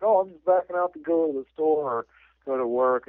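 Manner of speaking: lightly acted flustered cover story; retold embarrassed excuse. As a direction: rattle off an excuse as if caught out. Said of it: "he's all embarrassed".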